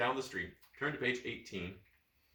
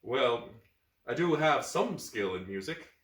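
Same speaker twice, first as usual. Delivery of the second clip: bashful; slower than usual. Acted. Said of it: "He says bashfully".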